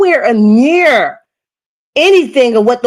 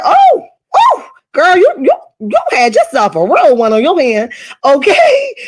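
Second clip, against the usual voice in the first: higher, hammed-up sassy girl exclamation; sassy mock exclaim; 4 semitones higher than usual. Vlogger mocking the sister, in a high hammed-up sassy voice. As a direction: gush it like a mock-amazed friend. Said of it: "I said".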